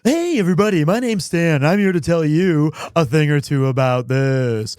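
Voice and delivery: loud, booming salesman pitch; Stan the pitchman. Pretend. Streamer voicing Stan for the chat poll, loud salesman. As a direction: bellow it like a used-boat dealer. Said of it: "Is he Stan?".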